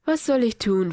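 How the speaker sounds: mildly exaggerated politeness; a hint of mock courtesy; lightly sarcastic, too-polite question; overly polite. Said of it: "eindeutig übertrieben höflichen Tonfall".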